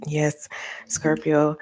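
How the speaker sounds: slow breathy whisper to Scorpio. Real, not acted. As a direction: hush it slowly. Soft aside to listener.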